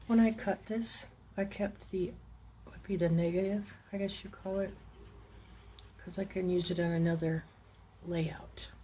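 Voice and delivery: talking around a pin in mouth; words slurred past a pin held in the lips. Real, not acted. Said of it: "trying to talk with a pin in my mouth again".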